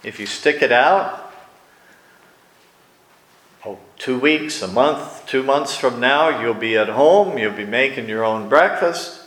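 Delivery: reassuring therapist. Retold or imitated. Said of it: "The therapist would say".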